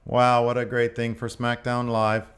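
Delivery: lightly robotic interview bot; stilted bot announcer, only mildly robotic; robotic interviewer. Acted. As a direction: recite it like a programmed presenter. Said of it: "you're putting on way more motion".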